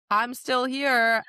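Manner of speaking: slow, drawn-out gloating; slow taunt. Retold or imitated. King taunting Nesta after her power is spent, slow gloat. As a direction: savour each word to rub it in.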